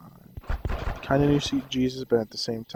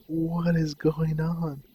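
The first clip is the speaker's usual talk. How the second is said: higher, very slow, puzzled; slow bewilderment; 5 semitones higher, much slower than usual. Retold or imitated. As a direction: spell out the confusion. Retelling his shock at anger vanishing.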